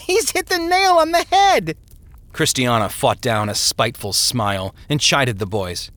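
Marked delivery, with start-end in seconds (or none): 0.1-1.8 high, loud words through a big laugh; laughing uproariously. Acted. Brother laughs at the impression, high laughing shout. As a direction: crow it out while laughing hard. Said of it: "laughed uproariously".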